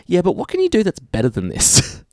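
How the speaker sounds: high-pitched, unimpressed mock question; mock clueless executive. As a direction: ape a studio boss who isn't impressed. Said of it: "take the glasses off and went".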